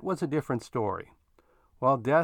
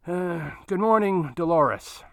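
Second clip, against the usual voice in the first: curt but polite; 6 semitones higher, 7 dB louder, slower than usual. A narrator's reading. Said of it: "His curt yet polite response".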